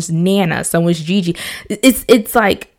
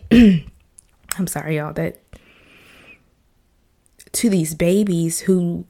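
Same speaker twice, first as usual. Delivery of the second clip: a whispered, broken apology; fighting back tears, barely voiced; choked up; slower than usual. Real, not acted. Breaks down over the victims.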